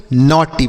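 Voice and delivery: नॉटी with "aw" in the first syllable; aw vowel. Shown as a demonstration. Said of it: "इसे पढ़ेंगे नॉटी".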